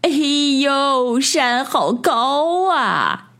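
high, drawn-out dismay; long, high exclamation of alarm; alarmed little lamb. A narrator's reading. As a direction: stretch it out as a daunted lamb. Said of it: "小绵羊捂着胸口说".

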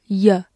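"y" as a reduced schwa syllable, like "yuh"; weak form. Shown as a demonstration. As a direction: say "y" as unstressed "yə", not "yoo". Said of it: "它也可以弱读成呃这个音".

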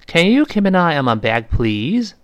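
long "please" with a light z, ending upward; rising tone on please. Shown as a demonstration. Teacher repeats the bag request for learners, rising tone. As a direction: question lifting up at "please". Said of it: "声调".

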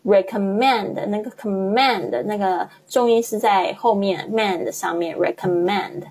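recommend 重音在 mand 上，拖慢说; 把 recommend 的 mand 读重读长; stress on mand. Shown as a demonstration. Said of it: "注意一下它的那个重音呢". (重音落在 mand 上，放慢)

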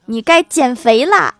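loud, drawn-out pronouncement; hammed-up Taoist master's roar; mock commanding shout. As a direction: bellow it slowly like a mock exorcist. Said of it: "大喝".

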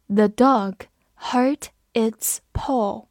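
slow, whispered, word by word; slow reading. Shown as a demonstration. Teacher reading the sentence slowly for students. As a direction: read it slowly for learners. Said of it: "我们慢读一遍".

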